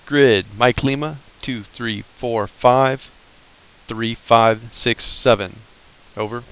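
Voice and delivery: slow, clipped radio readout of numbers; radio call voice. Shown as a demonstration. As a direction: read the grid digit by digit, slowly. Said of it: "Might sound something like this".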